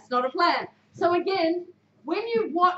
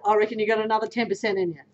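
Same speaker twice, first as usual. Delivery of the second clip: lower, fast, encouraging push; 5 semitones lower, faster than usual. Shown as a demonstration. Coach demos encouraging a player, lower and quick. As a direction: egg them on, warmly. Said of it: "Do you see how I say it".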